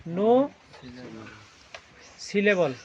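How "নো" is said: নো held long on its own; drawn-out syllable. Shown as a demonstration. Teacher sounding out mono for class, নো drawn out. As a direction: stretch নো as a separate syllable. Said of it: "মনো syllable হচ্ছে একবারে উচ্চারণ".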